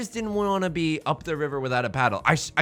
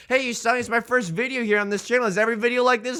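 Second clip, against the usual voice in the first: higher, quicker questioning voice; imagined viewer; 6 semitones higher, faster than usual. Acted. New viewer asking the host about the channel, lightly mocked. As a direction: put on a higher, hurried newcomer's voice.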